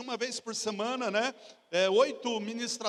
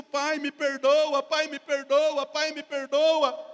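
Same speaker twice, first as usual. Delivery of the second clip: louder, slow pleading with a touch of tears; retold tearful plea; 4 semitones higher, 6 dB louder, slower than usual. Son begging his father at the gate, slow tearful plea. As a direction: beg forgiveness, half-crying, drawn out. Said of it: "mas eu já entrei chorando".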